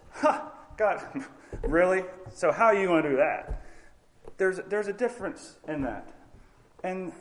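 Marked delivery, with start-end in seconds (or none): 0.1-3.6 skeptical, half-laughing huh, really; doubting. Retold or imitated. Zechariah, doubting, questions God with skeptical chuckle. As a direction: scoff at the promise with a chuckle. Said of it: "Instead of".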